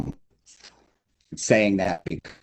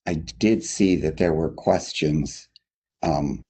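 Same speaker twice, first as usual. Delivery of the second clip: muffled, like through a wall; bad connection, muffled voice; muffled audio; 3 semitones lower than usual. Real, not acted. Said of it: "Andy, you sound muffled".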